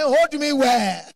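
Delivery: pleading wife. Retold or imitated. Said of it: "She said".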